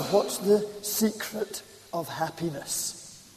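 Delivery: slow, weighty question to the room; slow emphatic question. Shown as a demonstration. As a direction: lean on each word slowly. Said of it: "question posed then repeated".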